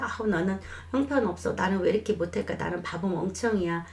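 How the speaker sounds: mild put-on voice of someone putting themselves down; lightly voiced self-criticism; self-blaming inner voice. Shown as a demonstration. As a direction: sigh and sulk at yourself, lightly acted. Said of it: "이런 것이 아니라".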